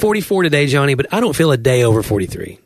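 corny joke, playful delivery; embarrassing dad joke. Acted. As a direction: land the pun like a proud dad. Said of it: "That's such a dad joke".

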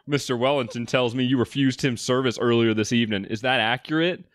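half-hearted British boss, breaking into a laugh; badly faked British with a giggle; attempted British accent. Boss questions waitress about refused service, shaky British accent. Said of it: "you have to do the British accents also".

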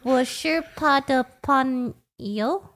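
我是他的朋友 through laughter; laughing Mandarin. Real, not acted. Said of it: "trying to yell".

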